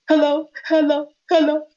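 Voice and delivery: high, tearful mock phone voice; imitated crying. Crying on the phone to Brother Kemet, tearful. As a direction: re-enact weeping into the phone. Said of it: "I was crying".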